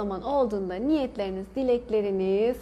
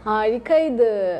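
word stretched through a yawn; 5 dB louder, much slower than usual. Real, not acted. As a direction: say it mid-yawn, slowly.

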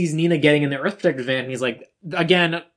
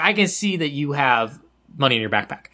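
talks like a woman; 3 semitones lower than usual. Retold or imitated. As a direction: deliver the little sister's line without the kid voice. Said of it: "She just talks like a woman".

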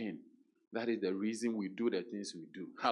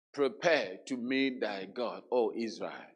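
slow, weighty repeat of the warning; slow emphatic repeat; slower than usual. Shown as a demonstration. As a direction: press down on "Prepare".

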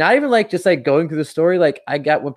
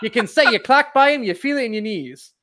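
put-on very old man; 9 semitones higher than usual. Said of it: "very old man on a porch scenario".

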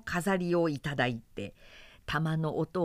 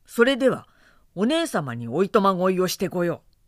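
unbothered; 7 dB louder, faster than usual. Acted. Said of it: "ミコトは平気で".

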